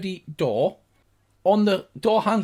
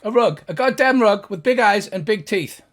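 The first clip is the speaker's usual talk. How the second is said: irate gnome; 5 semitones higher, 5 dB louder than usual. Acted. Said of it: "He says".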